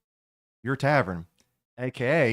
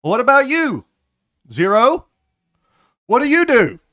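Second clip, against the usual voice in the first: Olga's bored bouncer voice; 13 semitones higher, 15 dB louder than usual. Acted. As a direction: moan it like a lazy bouncer. Olga questions Zero.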